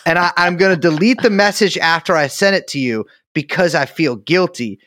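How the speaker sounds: dopey cartoon ape voice; bored ape voice. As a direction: talk like a dim cartoon ape. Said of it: "why are you talking in bored ape voice".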